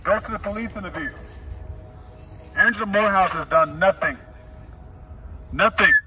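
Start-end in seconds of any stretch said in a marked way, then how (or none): 2.5-5.9 loud, bitter denunciation; angry accusation. Real, not acted. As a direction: hammer the name and nothing.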